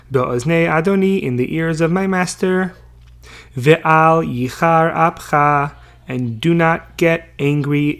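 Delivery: reading the verse slowly, word by word. Acted. Teacher reading the verse aloud to students, slow and deliberate.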